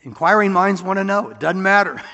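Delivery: mock curiosity.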